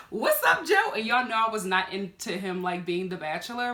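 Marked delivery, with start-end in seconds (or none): 0.1-0.9 laughing, higher, louder flirt; flirty greeting. Retold or imitated. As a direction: greet him like you're smitten. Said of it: "I was like".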